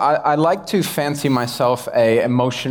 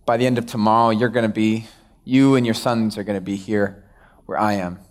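Samuel's verdict; 4 semitones lower than usual. Retold or imitated. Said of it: "Samuel's able to look at Saul and be like".

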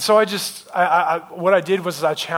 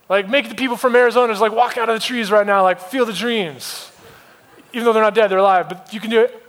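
raised, higher-pitched comic bargaining; exasperated mock plea; 4 semitones higher, 3 dB louder than usual. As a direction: push God for an absurd miracle. Exasperated demand of God, continued.

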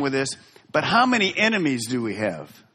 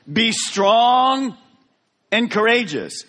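louder and higher, strong is stretched; firm command; 7 semitones higher, 5 dB louder, slower than usual. Acted. God commanding Joshua before the crossing, ringing out. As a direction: proclaim it like a charge.

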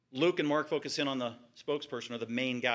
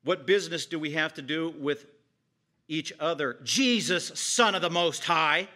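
demonic screech; 2 semitones higher, 6 dB louder than usual. Acted. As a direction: let the demons cry out at Jesus. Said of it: "they're screeching at the top of their lungs".

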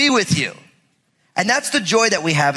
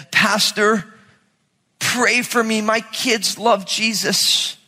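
a lightly voiced, pleading parent, higher and slower; mock worried parent; 4 semitones higher than usual. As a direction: play a parent fretting over kids who are too good. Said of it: "I've never once said".

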